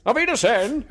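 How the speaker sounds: mock voice. Mock film line.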